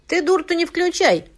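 high, loud angry snap; snapped. A narrator's reading. Widow snaps back at her friend, high and loud. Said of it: "огрызнулась Турзищина".

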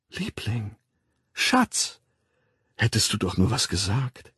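soft, breathed terms of endearment; endearing. A narrator's reading. Woman opening her arms to her darling, endearing. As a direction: coo it fondly to a lover. Woman lovingly approaches the man.

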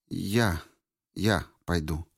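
мёртвым, безжизненным, тихим голосом; говорить будто из могилы, тихо; загробный голос. A narrator's reading. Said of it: "говорила поистине загробным голосом". (неживой, загробный голос)

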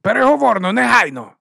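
high, loud sharp command; barked order. Acted. Boss ordering the security chief, loud barked command. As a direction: snap the order at the guard.

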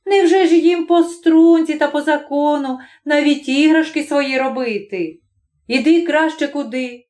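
put-on wife urging husband to leave the kids alone; wife persuading. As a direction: talk him down gently.

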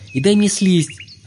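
high, slow furious demand; fierce demand. A narrator's reading. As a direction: drag out each word angrily. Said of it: "крикнул Олег люто".

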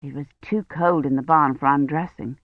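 ordinary delivery

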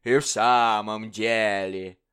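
slow, a touch calmed; king soothed by the courtier; appeased king. Acted. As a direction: settle down, reassured. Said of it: "как бы весьма успокоенный".

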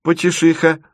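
доверительно, вполголоса по-дружески; поделись как секретом. A narrator's reading. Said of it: "доверительно сообщил он". (доверительно, как старому приятелю)

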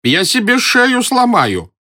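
high, slow panicked cry; trembling. A narrator's reading. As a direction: fear of falling from the branch. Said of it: "дрожа отозвался Близорукий". (испуганно, высоко и медленно)

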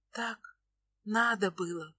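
hushed, near-breathless reply; whisper. A narrator's reading. Nastya to Ilya, a soft whisper. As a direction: barely voice the words. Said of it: "шепчу".

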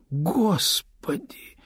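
breathy shocked gasp of a whisper, drawn out slowly. A narrator's reading. Lyuba gasps at the news of the divorce, whispered. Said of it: "ахнула Люба".

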